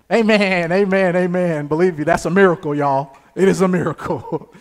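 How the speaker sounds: loud, full-voiced praise burst; exultant preaching. Real, not acted. Preacher celebrates his graduation as a miracle, loud exultation. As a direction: proclaim it loudly to the room.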